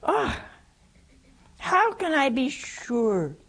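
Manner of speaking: slow, drawn-out doubt; slow doubting Zechariah. Retold or imitated. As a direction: drag out the doubt. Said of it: "That's what Zechariah said".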